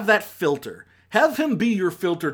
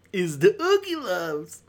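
slow, drawn-out sarcastic take on the title; mock dread; 4 semitones higher than usual. Repeating the title to viewers with slow sarcastic dread. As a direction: say it like it pains you.

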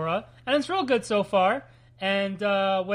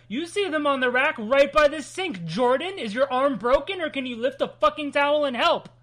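put-on exasperated parent scolding the kids; fed-up nagging parent; 4 semitones higher than usual. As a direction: nag them like an overworked parent. Plays fed-up parent nagging listeners.

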